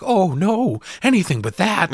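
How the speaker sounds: high-pitched mock dread; hammed-up sarcastic pleading. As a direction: feign horror in a put-on high voice. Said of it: "like, sarcastically".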